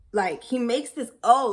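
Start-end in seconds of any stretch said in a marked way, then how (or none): 1.2-1.5 shocked. Retold or imitated. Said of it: "he's shocked".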